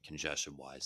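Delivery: stuffy nasal voice from a head cold. Real, not acted. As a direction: talk through a congested nose. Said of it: "So if I sound nasally".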